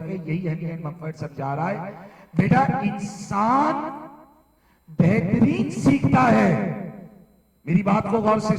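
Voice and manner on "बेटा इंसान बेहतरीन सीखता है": raised, slow teacherly drilling with firm pauses; emphatic class drill. Real, not acted. Teacher drilling the class in a key principle, emphatic. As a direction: drill the key line slowly, pitched up.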